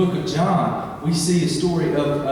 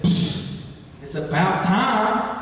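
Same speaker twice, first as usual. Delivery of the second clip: a scoffing psh, then a slow mock-sulky about time; bad attitude; 2 semitones higher, slower than usual. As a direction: act out a light eye-rolling sulk. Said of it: "could have had a bad attitude".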